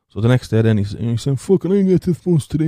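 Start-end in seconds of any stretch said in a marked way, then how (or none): 1.4-2.7 high put-on voice, determined; high impediment voice. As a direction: vow to catch the bus, squeaky.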